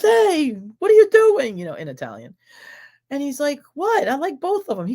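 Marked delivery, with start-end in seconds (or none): 0.0-1.6 high, loud mock scolding; imitated outraged challenge. Cousin confronts boy over two bracelets, imitated outraged challenge. 3.7-4.9 high-pitched, innocent defence; imitated boy's protest. Son answers scolding cousin about his bracelets, imitated protest.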